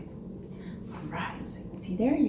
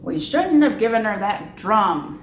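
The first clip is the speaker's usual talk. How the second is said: lightly voiced grumbling father; 7 dB louder than usual. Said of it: "said her father".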